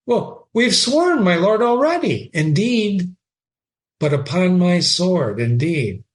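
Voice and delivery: reading Shakespeare aloud with feeling; dramatic reading. Acted. Teacher reading Horatio to the class, dramatic reading. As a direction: give Horatio's line a lively read. Reads the oath exchange aloud.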